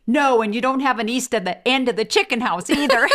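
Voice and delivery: can barely get it out for laughing; laughing through it. Retold or imitated. Wife retelling the shotgun story, loud and laughing. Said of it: "I said".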